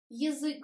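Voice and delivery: "Язык" as yi-ZYK; unstressed Я as И. Shown as a demonstration. Teacher giving an example, "Язык" starting with an i sound. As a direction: reduce the first vowel of "Язык" to a short i. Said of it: "but we pronounce И".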